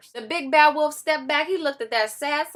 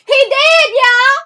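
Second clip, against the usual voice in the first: laughing; 12 semitones higher, 11 dB louder, much slower than usual. Acted. Sister laughs at dead wolf.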